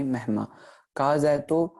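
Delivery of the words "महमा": महमा with a light ह after म; teacher models the light ह in महमा; light h demo. Shown as a demonstration. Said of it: "हल्की सी फिर हाय स्यारी उच्चारण की जाएगी".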